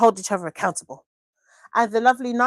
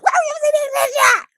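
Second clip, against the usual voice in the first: mock exasperated; 5 dB louder than usual. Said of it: "I'm just like".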